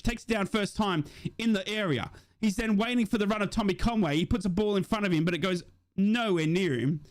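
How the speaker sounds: lively fan commentary call of a chance; play-by-play commentary. Acted. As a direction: narrate the attack as it unfolds. Live play-by-play of the match.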